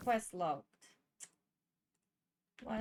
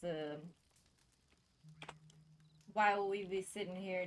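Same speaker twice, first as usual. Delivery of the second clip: over-the-top Southern cowboy voice; exaggerated southern accent. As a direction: lay the Southern accent on thick. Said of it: "Nice southern accent".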